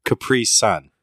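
"Capri Sun" with weight on "pri", "Sun" its own word; stress on PRE. Shown as a demonstration. Co-host demonstrating the right way again, stressed PRE. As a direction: model "Capri Sun" firmly as two words. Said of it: "I put a big emphasis on the pre".

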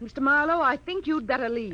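indignant order. Acted. Orders detective to leave.

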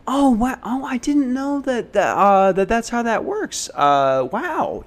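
high, airy fake-impressed white guy; mock-impressed whitest voice possible. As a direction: gush like a clueless suburban kid pretending to get it. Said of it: "as white as possible".

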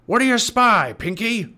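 high, loud pirate captain shout. A narrator's reading. Captain Bones shouting up to Pinky, pirate shout. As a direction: holler up to your crewman. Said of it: "shouted Captain Bones".

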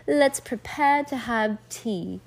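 put-on slow, refined English accent; proper English accent. A narrator's reading. Girls play at royal tea, proper English accent. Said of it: "Lucy said in the same accent".

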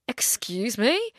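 slow, breathy whisper of shock; slow whispered disbelief. Retold or imitated. Vlogger retelling a stranger's question, whispering slowly. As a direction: let it drop out, hardly voiced. Reaction retold.

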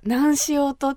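lightly imitated cute Hakata lilt; cute Hakata dialect. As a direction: try out a mellow Hakata phrase. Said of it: "まろやかで可愛いの".

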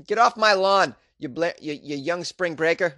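a hint of a cranky old man yelling. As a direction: shout them off the lawn like a grumpy grandpa. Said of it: "I sound like an old man right now".

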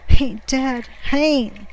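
high, agitated insistence; loud burst of desperate denial; delirious denial. A narrator's reading. Delirious sailor insisting on his friend, agitated. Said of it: "obviously quite delirious".

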